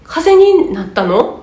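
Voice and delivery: slow, puzzled question; a listener baffled by an odd phrase; lightly acted confusion; mock puzzled reaction. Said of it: "みたいな、なんかの歌かなと思うじゃない".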